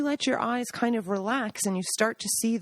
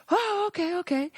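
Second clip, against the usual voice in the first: imitating Gaggi; 9 semitones higher than usual. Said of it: "Gaggi answering".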